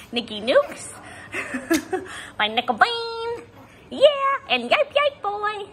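high, sing-song little dog voice; voicing the chihuahua. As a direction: speak for the tiny dog in a squeaky high voice. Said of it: "Say hi".

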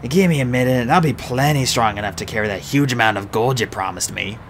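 rough, earthy dwarf; gruff dwarf voice. Acted. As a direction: play the boastful dwarf. Mulch speaking.

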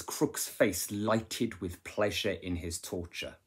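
slowly, weight on lighted; slow quote reading. Shown as a demonstration. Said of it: "a quote that I think I would learn".

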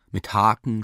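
ordinary delivery, nothing marked

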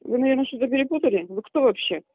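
tinny, quick phone-line voice; over the phone. Real, not acted. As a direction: heard through a phone speaker. Prank call, woman answers phone.

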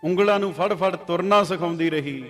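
recited verse with a lingering, devotional lilt; poem recital. Acted. Preacher recites a verse about mother to the congregation, devotional recital.

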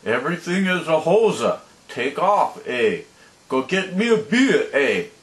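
lightly mocking Canadian accent with 'eh' tags; a jeering, half-hearted Canadian impression. Mocking Canadians who sent hate mail, in a light Canadian accent.

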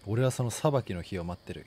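put-on low, grim old man muttering. Voices creepy old man NPC.

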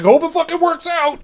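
high, loud mocking careless dev. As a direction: sneer it like a lazy dev who doesn't care. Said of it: "randomly push buttons and be like".

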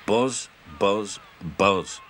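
teasing retort. Acted. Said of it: "retorted Duck".

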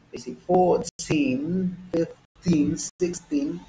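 put-on "fourteen, fifteen, sixteen" with long stressed "teen". Shown as a demonstration. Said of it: "So the stress changes a little bit".

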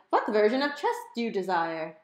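high, loud, hammed-up German accent; an overeager German butler voice; German computer squeal. A narrator's reading. Home computer answering Mom, squealing in a German accent. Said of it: "high-pitched German accent".

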